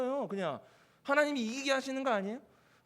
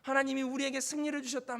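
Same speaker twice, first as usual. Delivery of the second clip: soldiers' victory cheer; 3 semitones higher than usual. Acted. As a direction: imitate troops crying out in triumph. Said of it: "군사들이 여기저기서 환호성을 지르고". (환호성을 흉내 내는 들뜬 목소리)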